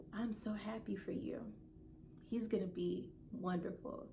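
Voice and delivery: zacht gefluisterd, teder doorgegeven; whisper. Retold or imitated. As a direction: fluister het liefdevol na. Granny speaks tenderly in dream.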